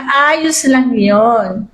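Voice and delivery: calm reassurance. Retold or imitated. Mother calmly answers despite death.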